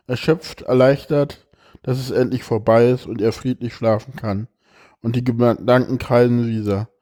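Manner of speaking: expressive reading aloud of a personal text; emotional reading. Acted. Reads a moving text aloud.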